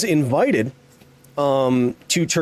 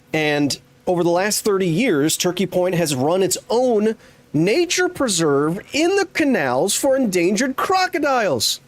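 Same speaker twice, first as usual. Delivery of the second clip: excited reveal; 4 semitones higher than usual. Real, not acted. Streamer telling viewers the cool crocodile fact, excited. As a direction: build up to an amazed, high-pitched reveal.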